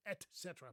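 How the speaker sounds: "Et cetera" with a clear t; "Et cetera" as ET SET-er-a; two separate words. Shown as a demonstration. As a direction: keep "Et" apart from "cetera". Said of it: "I like that we keep it separate".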